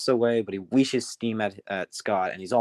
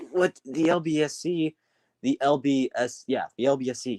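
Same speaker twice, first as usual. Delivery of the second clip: puzzled, higher-pitched questioning; confused; 3 semitones higher than usual. Acted. Lost engine repeating a strange railway name, confused. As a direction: echo it in mild bewilderment. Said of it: "And he's all confused".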